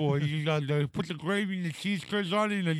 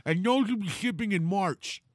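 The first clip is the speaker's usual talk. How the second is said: Todd impression; 4 semitones higher than usual. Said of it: "how did he say March perfectly".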